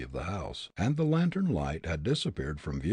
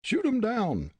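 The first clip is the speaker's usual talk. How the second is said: very high, loud command; rough shout; 14 semitones higher, 4 dB louder than usual. Acted. Smuggler urging the gang, shouting. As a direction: yell it at the gang.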